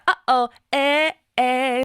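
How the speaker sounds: "Uh-oh, eh, eh" slow, each starting with a glottal catch; slow "eh, eh" with hard glottal attacks; glottal onset demo. Shown as a demonstration. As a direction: pop each vowel open from the throat, as in "Uh-oh". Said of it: "Glottal onset being there".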